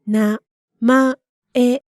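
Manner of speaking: 名 then 前, broken apart with a pause; split into syllables. Shown as a demonstration. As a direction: say 名 and 前 as two separate chunks. Word split for learners.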